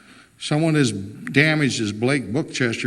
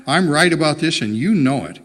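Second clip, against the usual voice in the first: raised, louder, firm insistence; insistent; 4 semitones higher, 5 dB louder than usual. Acted. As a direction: push back hard, louder and higher. Heated argument with her husband.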